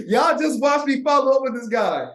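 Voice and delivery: high, loud, giddy show-off; y'all watch me, loud and delighted; gleeful excitement. Real, not acted. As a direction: gloat over the win, bubbling up.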